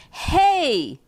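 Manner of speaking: high, loud angry little duck; small duck yelling hey; mad duck yell. Acted. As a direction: shout it as an angry duckling. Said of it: "yelled the mad little duck".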